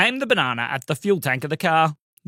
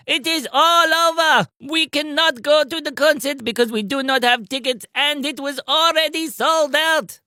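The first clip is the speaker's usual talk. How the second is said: mock sad high voice; 10 semitones higher than usual. No tickets, concert lost.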